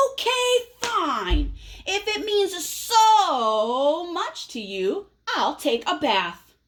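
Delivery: huffy, reluctant give-in; grudging anger. Acted. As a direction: give in with a sulk. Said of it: "He's pretty angry".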